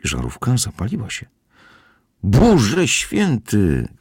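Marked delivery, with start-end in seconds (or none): 2.2-3.9 high, drawn-out exclamation; startled cry. A narrator's reading. Housekeeper discovers current in the door, crying out. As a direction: cry out in shock, stretching the words. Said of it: "krzyknęła gospodyni".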